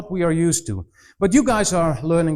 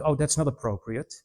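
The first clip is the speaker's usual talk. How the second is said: prim disapproval; 3 semitones lower, 6 dB quieter than usual. Retold or imitated. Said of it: "people go like".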